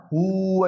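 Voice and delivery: a short hooting elephant call; elephant trumpet imitation. Teacher imitating an elephant's trumpet for students, a light short hoo. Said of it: "ये आवाज निकालते हैं ना".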